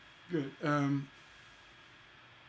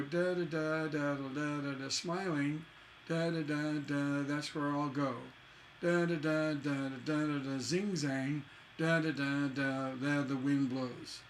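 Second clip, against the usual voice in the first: rhythmic da-das with words slotted into line endings; asymmetrical metre demo. Shown as a demonstration. Teacher shows what the ear expects, chanted metre to "blows". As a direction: chant the beats, "smiling" hanging, "blows" landing. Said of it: "expecting another asymmetrical couplet".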